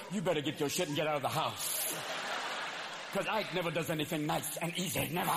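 a singer's warning. Retold or imitated. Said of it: "Even the singer would go".

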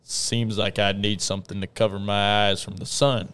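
put-on cowboy accent. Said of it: "gotta use cowboy accents".

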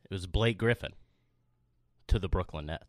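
low, weighty delivery with a dramatic pause; dramatic, slow and deep. Shown as a demonstration. Co-host repeats the scoop on request, slow and deep. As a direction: drop the voice deep and space it out. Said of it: "Say it with some dramatic, slow and deep".

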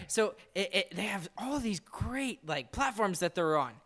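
mock praise, lifted pitch; sarcastic. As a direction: gush insincerely over how great it is. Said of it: "I'm being sarcastic".

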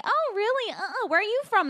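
high-pitched, polite fake small talk; feigned interest. Feigned interest in a man's chat.

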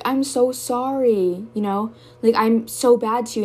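slow, high, drawn-out imitation of a sorry partner; mock apology. Imitating the partner apologizing after a breakdown, slow and high mock sorry. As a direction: ham up their syrupy regret.

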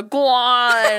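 playful loud urging, on a laugh; coaxing partner. Acted. Imagining someone urging a partner on, laughing coax. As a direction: egg them on, half laughing. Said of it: "Someone go".

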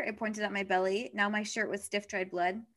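measured, even reading aloud; story narration. A narrator's reading. Reading a book's opening to a friend, measured narration.

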